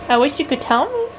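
put-on baby talk. Mom cooing to baby.

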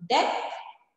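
"decoration" broken as dec, o, ra, tion; long pause after each syllable of "decoration". Shown as a demonstration. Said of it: "when we split it".

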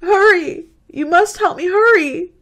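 pleading. Acted. Frightened girl begging the sheriff to hurry. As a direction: urge them on in fear.

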